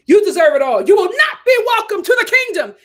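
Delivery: laughing through the words; half laughing, half crying out; giggling scorn. Real, not acted. Laughing through her rant.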